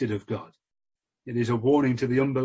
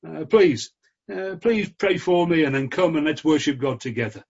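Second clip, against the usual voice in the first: a preacher's mild pleading voice, a little higher and louder; pleading Saul; 4 semitones higher, 3 dB louder than usual. Retold or imitated. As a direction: beg like a humbled king on his knees, lightly acted. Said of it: "perhaps he falls before him. And he says".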